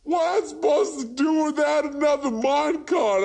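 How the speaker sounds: mock wailing. Gamer losing his minecart, hammed-up wailing despair. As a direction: wail like a kid who lost a toy.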